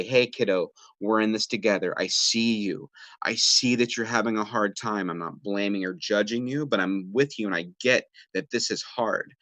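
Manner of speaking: sit beside them and reassure; reassuring. Shown as a demonstration. Parent in the raft comforting a child, reassuring. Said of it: "you're gonna come out to them in a raft and you're gonna say".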